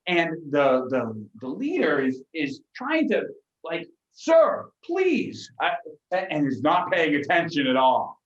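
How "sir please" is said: high, pleading cry; high panicked begging; frantic plea. Acted. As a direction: squeal it in a panic. Frantic leader pleading to passenger.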